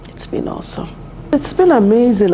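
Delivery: emotional. Real, not acted. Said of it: "I'm getting a bit emotional here".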